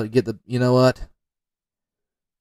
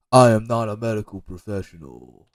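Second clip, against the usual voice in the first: mock disclaimer; 4 dB louder than usual. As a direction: announce it firmly, stretching the words. Mock disclaimer after magnesium advice.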